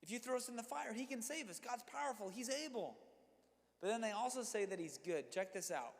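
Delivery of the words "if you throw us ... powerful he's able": raised, bold defiant quote; a lightly acted dare to the king; voicing the three friends. Preacher voicing the friends defying the king, bold. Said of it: "basically they say".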